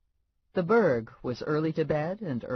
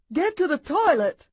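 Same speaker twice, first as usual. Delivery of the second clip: much higher, loud urgent yell; 8 dB louder than usual. A narrator's reading. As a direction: shout at her husband to get to the toilet. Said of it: "his wife yelled".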